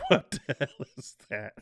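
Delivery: real laughter breaking through the words; helpless laughing read-out. Real, not acted. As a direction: read it out while cracking up. Laughing while reading viewer comments.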